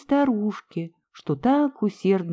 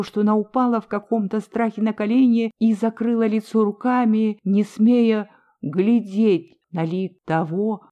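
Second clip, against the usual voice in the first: ordinary delivery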